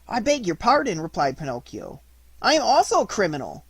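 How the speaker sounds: put-on high, quick, pleading boy voice; eager puppet. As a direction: insist brightly you are a criminal too. Pinocchio insists he's criminal.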